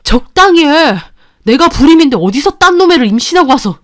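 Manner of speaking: husband roaring in accusation; a husband bellowing at his wife; yelling at wife. Acted. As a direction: shout it at her, furious. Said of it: "저한테 고래고래 소리를 지르는".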